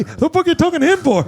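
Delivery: high mock-indignant question; imitated blunt snub. Ducka D snubbing his uncle on FaceTime, mock disdain. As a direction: fire back a performed brush-off. Passer-by's snub acted out.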